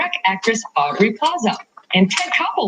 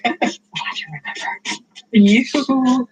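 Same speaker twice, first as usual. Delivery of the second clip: ordinary delivery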